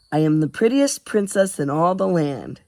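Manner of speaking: tonelessly, without any effort; grudging monotone recital; said flatly. Acted. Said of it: "he said flatly".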